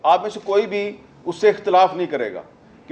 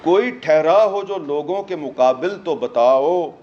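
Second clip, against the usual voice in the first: slow, measured verse recital with pauses; poetry recitation; slower than usual. Acted. Speaker quoting verse on power to the audience, slow poetic recital. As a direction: recite the verse slowly, phrase by phrase.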